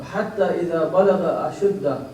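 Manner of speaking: recited Quran verse; Quran recitation. Acted. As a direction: recite the verse in a rolling chant.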